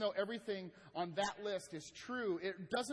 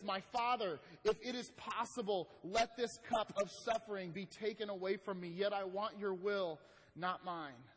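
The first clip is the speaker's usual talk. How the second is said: earnest, raised-voice plea in prayer; crying out to God; 4 semitones higher, 5 dB louder than usual. Acted. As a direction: plead aloud with God, louder and higher. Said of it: "he's just crying out to God".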